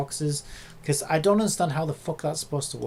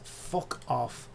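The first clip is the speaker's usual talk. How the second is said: muttered curse; 3 semitones lower, 7 dB quieter than usual. Real, not acted. Cursing the program under breath.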